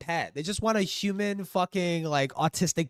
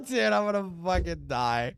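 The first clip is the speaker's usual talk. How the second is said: laughing. Real, not acted. Laughing after the voice.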